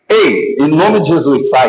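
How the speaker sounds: slow, steady rebuke without shouting; just say it calmly and firmly; calm command. Shown as a demonstration. Pastor showing the calm way to cast out, slow and firm. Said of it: "Nem precisa você dizer assim".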